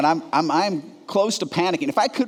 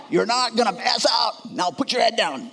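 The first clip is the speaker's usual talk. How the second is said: nurse cutting him off; 6 semitones higher than usual. Retold or imitated.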